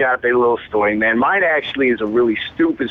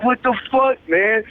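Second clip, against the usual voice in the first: imitating the homie; 10 semitones higher than usual. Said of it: "And he was like".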